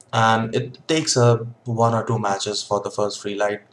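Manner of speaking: talking around pipe stem; clenched teeth speech; pipe in mouth. Real, not acted. Seen 0: Pipe stem clenched in his mouth while speaking, held by hand.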